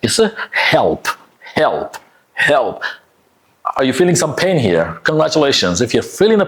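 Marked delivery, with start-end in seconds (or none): 0.5-2.8 "help" with uh before the L; careful "help" with a dark L. Shown as a demonstration. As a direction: model "help" as heh-ulp, separately each time. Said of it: "you put the uh sound".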